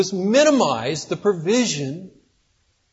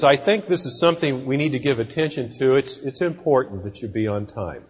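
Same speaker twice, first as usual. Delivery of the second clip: soft, gentle correction of a late worker; gentle boss; 4 semitones lower, 4 dB quieter, faster than usual. Retold or imitated. Boss gently warning a late employee, softly. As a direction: ease into it kindly, softer at the end. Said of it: "very gently".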